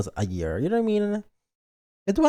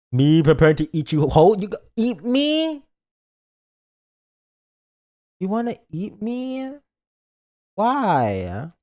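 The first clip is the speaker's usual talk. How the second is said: higher, slow mock fright; higher slow pretend alarm; 5 semitones higher, slower than usual. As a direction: play scared of being eaten.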